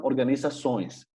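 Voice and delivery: slow organizações ending in nasal "õis"; nasal -ões plural. Shown as a demonstration. Teacher models Portuguese plural, organizações ending in nasal "õis". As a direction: stretch organizações, nasal glide into the S. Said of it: "hay que leerlas como nasales".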